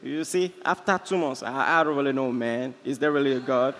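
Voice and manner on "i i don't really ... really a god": put-on low-pitched affected London accent. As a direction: fake a newly acquired London accent. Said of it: "get accent".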